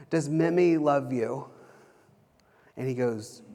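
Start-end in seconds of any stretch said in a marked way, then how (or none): 0.1-1.5 gentle question. Retold or imitated. Dad gently questioning his upset child.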